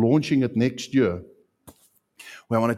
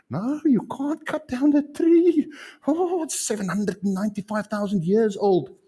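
mock tree hugger; 8 semitones higher than usual. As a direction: parody a fussy tree worshipper. Mocking tree worshippers' protest.

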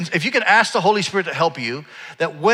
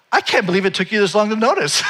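amused mom; 6 semitones higher than usual. Retold or imitated. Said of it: "Starts laughing, and she goes".

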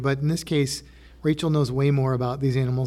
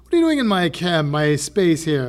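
posh tuxedoed penguin; 2 semitones higher, 4 dB louder than usual. Retold or imitated. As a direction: play a penguin in a tuxedo, offended at intruders. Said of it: "I just speak like that 'cause I picture them wearing tuxedos".

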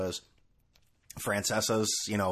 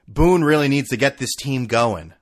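mock Francesa tweet; 7 dB louder than usual. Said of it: "Like, oh, thanks, Mike".

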